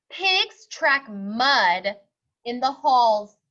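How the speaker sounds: slow, firm no; stern principal. Acted. Principal refusing the pig entry, slow and firm. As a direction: lay down the rule slowly.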